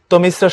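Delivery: "তমিশ্রা" as tomis-sra; যথাযথ উচ্চারণ. Shown as a demonstration. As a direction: double the s in "তমিশ্রা". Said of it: "যথাযথ উচ্চারণ হবে". ("তমিশ্রা"-য় স দ্বিত্ব করে)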